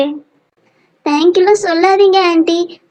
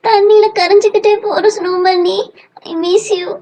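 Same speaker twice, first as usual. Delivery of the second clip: drawn-out, higher-pitched farewell cry; mournful calling; 3 semitones higher, much slower than usual. Acted. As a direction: call after a friend slipping away. Child calls to melting snowman.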